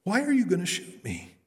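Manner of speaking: high-pitched joke voice for a bear; talking bear. Acted. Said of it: "looks at him and goes".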